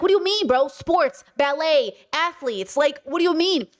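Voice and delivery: high-pitched incredulous comeback. Retold or imitated. Retells own incredulous comeback to Destiny.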